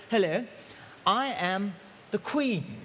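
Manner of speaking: lightly put-on BBC English accent, slowing on the title; a hint of the Queen's formal BBC English. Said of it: "says in a real kind of B B C English accent".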